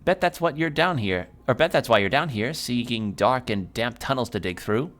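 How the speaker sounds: teasing hag. Acted. Hag mocks the player digging tunnels, lightly high.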